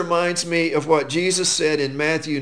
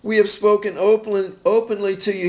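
tender, loving; 3 semitones higher than usual. Shown as a demonstration. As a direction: say it gently to someone you deeply love. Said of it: "talking to a child or someone that he deeply loves".

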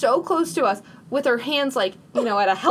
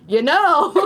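louder, higher mock Boston accent; put-on Boston accent; 5 semitones higher, 5 dB louder than usual. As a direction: lightly imitate a Boston street guy's accent. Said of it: "this happened in Boston".

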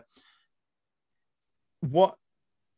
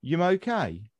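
Brummie "Yum okay?", "are you" merged into "Yum"; Brummie accent; 3 semitones higher, slower than usual. Shown as a demonstration. Showing how Birmingham asks it, Brummie accent. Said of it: "If you're in Birmingham".

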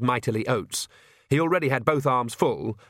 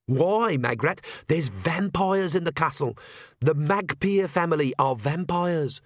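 higher, incredulous warning; exasperated young witch raising the alarm; urgent disbelief; 5 semitones higher than usual. Acted. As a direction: spell out the danger, pitched up. Alarmed warning after Magrat asks why.

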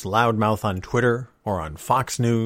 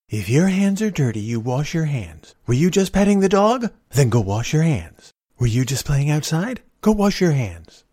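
mom scolding. Retold or imitated. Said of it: "my mom taught me".

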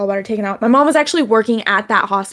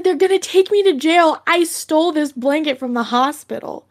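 mock distraught; 5 semitones higher than usual. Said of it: "I was just crying hysterically".

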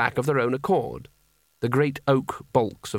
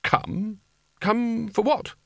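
indignant surprise; 9 semitones higher, much slower than usual. A narrator's reading. Spelter indignant.

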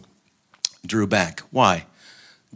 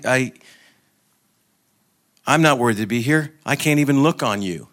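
higher, mildly anguished plea; ashamed soul; 3 semitones higher, 4 dB louder than usual. Acted. The soul averting its eyes from God, mildly anguished. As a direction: plead haltingly, as one who feels unworthy.

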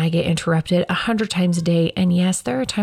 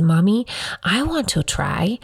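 put-on child voice; 2 semitones higher than usual. Mom quoting her toddler asking for the mic, lightly childlike. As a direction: imitate a three-year-old asking sweetly. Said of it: "he looks at me and he says".

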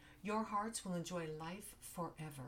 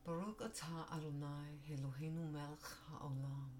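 composed retake. Real, not acted. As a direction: recover and pray it calmly. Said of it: "I'll say it one more time".

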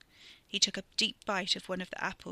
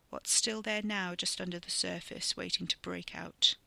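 put-on menacing old stranger. The man taunts Ricky.

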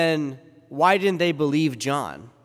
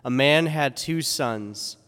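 gospel reading. Acted. Gospel read at Mass.

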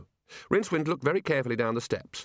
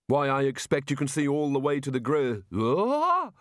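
sudden alarm; 3 semitones higher than usual. Acted. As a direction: cut off by a high startled yelp. Rincewind tottering near the edge.

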